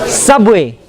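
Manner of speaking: "Subway" as one word, "SUB-way"; "Subway" with a short falling "way"; native pronunciation. Shown as a demonstration. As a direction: stress the first syllable of "Subway". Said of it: "not like how you pronounce it".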